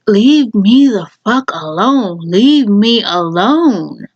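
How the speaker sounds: slow, drawn-out plea to be left alone; fed up, leaning on each slow word; exasperated. Retold or imitated. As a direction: stretch every word out in exasperation. Venting at nosy kids.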